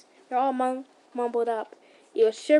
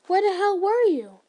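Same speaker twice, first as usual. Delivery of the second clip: loud, high, panicked yell; frantic shout; 7 semitones higher, 7 dB louder than usual. Acted. Searching the forest, panicked he can't find you, shouting. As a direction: shout it out in desperate worry.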